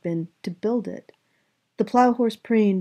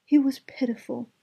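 cartoon princess; 6 semitones higher than usual. A narrator's reading. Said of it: "said the princess".

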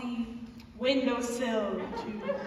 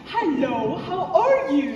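swallowed-tongue cousin impression; 6 dB louder than usual. Mother imitates a cousin who swallowed his tongue. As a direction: talk loudly as if your tongue is gone. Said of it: "He talked like this".

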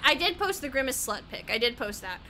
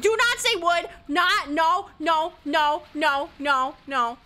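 scolding chat; 5 dB louder, slower than usual. Real, not acted.

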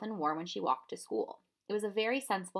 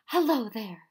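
yelled greeting; 3 semitones higher, 9 dB louder, slower than usual. A narrator's reading. Professor calls to the children on the porch, loud hello. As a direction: call out cheerfully across the porch. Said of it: "he yelled".

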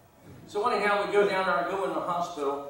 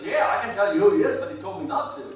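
lightly voiced wife, starting higher and louder; a hint of the wife's coy reply; sly wife's answer; 11 semitones higher, 6 dB louder, faster than usual. Wife telling police she won't say who he is, mildly coy.

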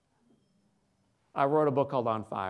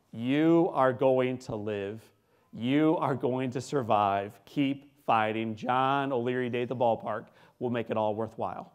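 slow, weighty announcer-like pledge; Jack Buck. Retold or imitated. Announcer promising a dying boy a future, slow and emphatic. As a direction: draw out each word with firm conviction. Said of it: "I hear this voice that says to me".

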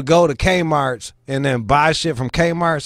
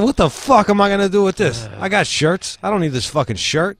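higher and louder, hammed-up grumpy old man; mock grandfather rant; 7 semitones higher, 3 dB louder than usual. Grandfather complaining about the Christmas shirt, hammed-up angry rant. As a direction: imitate grandpa fuming over a gift, half laughing. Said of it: "He said".

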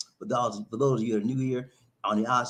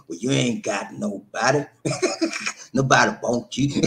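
mock hater taunt. Mocking what haters say.

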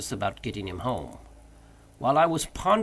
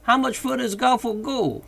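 high, loud call from up a tree; high-pitched, drawn hail; halloo from afar; 11 semitones higher, 5 dB louder than usual. A narrator's reading. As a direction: holler it down from high above. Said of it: "heard in a sort of halloo".

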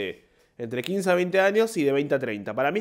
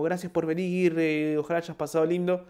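nervous thanks; 2 semitones higher than usual. Retold or imitated. Performer greeting audience after the show, mildly mocked nerves. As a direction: imitate thanking people while trembling all over. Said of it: "me tiembla toda la cuerpa".

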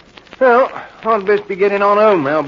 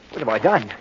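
remorseful. Acted. Horror after stabbing wife.

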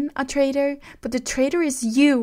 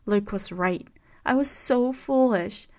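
trembling angry outburst; 3 semitones higher, 6 dB louder than usual. A narrator's reading. Rey accusing Kylo of betrayal, shouting with a trembling voice. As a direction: hurl every word at him, shaking. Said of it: "Her voice trembled".

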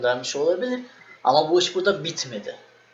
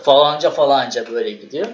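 yüksek sesle okuma taklidi; 5 dB louder than usual. Retold or imitated. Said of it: "Sesini yükselterek okumaya başladı".

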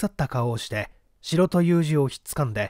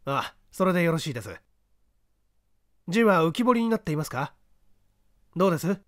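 calm, assured voice of the detective, a touch higher than the narration; a lightly voiced, unhurried gentleman sleuth; composed gentleman detective; 5 semitones higher than usual. The detective calmly directing the man up the ladder.

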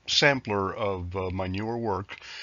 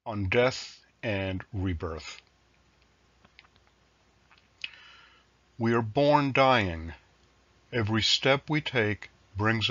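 measured poem recital with pauses between lines; poetry reading. Acted. Poet reading a sampler of newer work to listeners, measured recital. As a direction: recite line by line, each phrase falling to a close. Poet reads own poems aloud.

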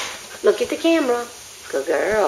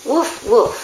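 light, worded "woof, woof"; mock dog bark. Owner prompting the dog to talk, mock bark. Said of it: "You say".

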